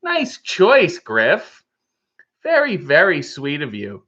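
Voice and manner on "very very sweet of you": winded from push-ups; out of breath. Real, not acted. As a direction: talk a little winded after exercise. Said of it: "why do you sound out of breath?".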